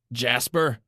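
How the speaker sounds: a high shrieked name. A narrator's reading. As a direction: shriek his name in panic. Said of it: "Annie shrieked".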